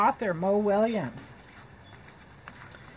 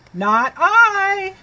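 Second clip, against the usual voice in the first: higher, louder, curt refusal; cat's refusal; 8 semitones higher, 8 dB louder than usual. Acted. Cat refuses to help the hen, higher and loud. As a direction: toss off the no like a lazy cat. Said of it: "Meowed the cat".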